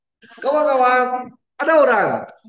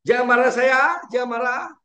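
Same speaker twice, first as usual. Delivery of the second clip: pleading wife; 5 semitones higher, 4 dB louder than usual. Retold or imitated. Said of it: "Dia, dia cakap".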